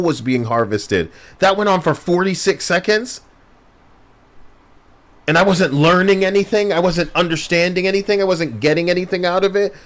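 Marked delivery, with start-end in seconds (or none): 1.4-9.7 higher, faster, fed-up rant; exasperated rant. Real, not acted. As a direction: vent in disbelief.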